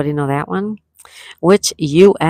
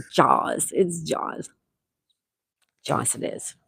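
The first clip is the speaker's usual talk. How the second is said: whispered aside; 7 dB quieter, slower than usual. Real, not acted. Conceding a joke answer.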